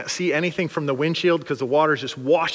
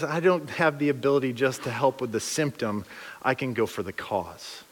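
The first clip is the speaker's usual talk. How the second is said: much softer and lower, sinking; quiet, calm Jesus; 4 semitones lower, 7 dB quieter than usual. Acted. Jesus to disciples looking at a symptom, quietly assured. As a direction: answer low and understated.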